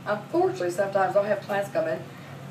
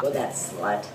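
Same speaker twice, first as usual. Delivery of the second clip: low, grumbling mock outrage; indignant mom; 12 semitones lower, 6 dB quieter, slower than usual. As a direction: huff like an offended mother. Mother blaming the girl.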